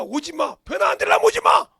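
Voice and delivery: 오지 hit hard at the top of the voice; retold shout. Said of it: "그 소리가". (오지를 높고 크게 내지르는 외침)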